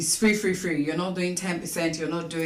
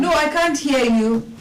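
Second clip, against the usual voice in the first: to someone hard of hearing; 8 semitones higher, 7 dB louder than usual. Real, not acted. Caller on a bad phone line.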